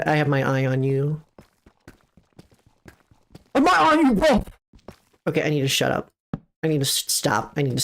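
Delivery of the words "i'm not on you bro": higher, louder protest; raised playful protest; defensive outburst. Real, not acted. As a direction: push back at chat, loud.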